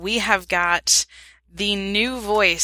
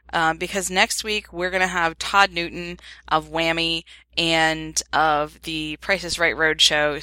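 ordinary talk

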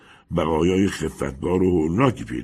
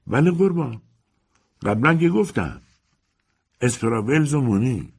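put-on higher, old housekeeper answering curtly; 7 semitones higher than usual. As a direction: play the landlady's servant, a bit bored. Housekeeper answers the young man.

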